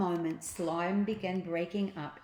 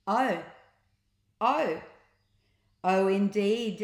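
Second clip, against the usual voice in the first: knowing agreement; 2 semitones higher, 6 dB louder, slower than usual. A narrator's reading. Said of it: "agreed Ned".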